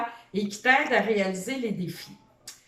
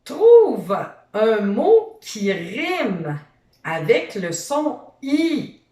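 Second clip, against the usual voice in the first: slow and louder, every word clear; slow, loud instruction; 6 dB louder, slower than usual. Shown as a demonstration. Teacher slows right down so the child hears the rhyme task. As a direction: draw the instruction out slowly. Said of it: "teacher slows for rhyme task".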